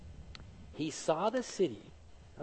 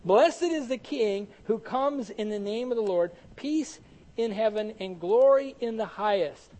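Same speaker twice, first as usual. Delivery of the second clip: higher, louder scripture cry, short of a shout; mildly raised proclamation; 4 semitones higher, 6 dB louder than usual. Acted. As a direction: read it out as a joyful crowd's acclamation.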